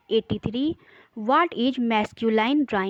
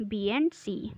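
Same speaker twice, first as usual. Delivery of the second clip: whisper; 5 dB quieter than usual. Real, not acted. Repeats the answer as an aside.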